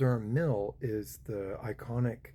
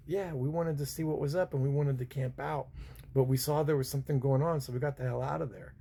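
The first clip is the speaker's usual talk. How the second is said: higher put-on American accent, speeding up; thick American accent; 4 semitones higher than usual. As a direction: rush the excuse in your best American. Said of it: "I put on the thickest American that I had".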